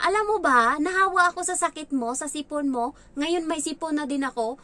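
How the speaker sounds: put-on whiny child. Child whining accusation.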